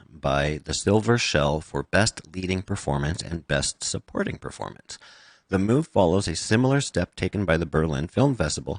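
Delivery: lightly put-on podcast read; podcaster voice. Shown as a demonstration. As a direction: read the article out in a measured podcaster voice. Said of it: "my podcaster voice".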